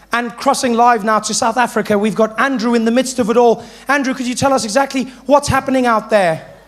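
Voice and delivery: lightly voiced newsreader handing over; news anchor. Anchor crossing live to Andrew, mock news voice. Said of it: "foreign correspondents".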